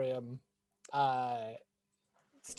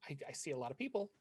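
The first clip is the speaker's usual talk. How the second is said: clerk voice; 5 semitones lower, 16 dB quieter, faster than usual. Acted. DM voices shop clerk Natalie.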